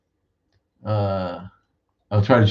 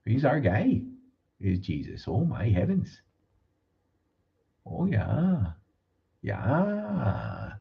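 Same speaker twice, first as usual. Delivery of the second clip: much higher, sing-song Upper Midwest churchy local; Wisconsin local accent; 7 semitones higher, slower than usual. Retold or imitated. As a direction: gush about Jesus like a Wisconsin small-town local. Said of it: "They really do talk like that here".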